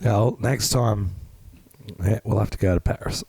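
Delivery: strained, losing his voice; rough and worn-out voice; hoarse voice. Real, not acted. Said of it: "Ben's got no voice".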